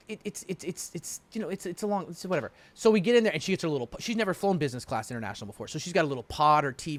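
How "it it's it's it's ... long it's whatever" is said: mumbled excuse. Retold or imitated. Sheepish mumbled reply.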